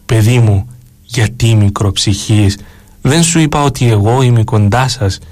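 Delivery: a hint of a tender elder comforting his child; sweet gentle voice. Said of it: "Ήταν η γλυκιά φωνή του γέροντά μου".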